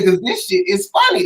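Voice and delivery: very high, slow, giggly insistence; squealed excuse. Retold or imitated. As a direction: plead it like a kid who can't stop laughing. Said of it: "I say".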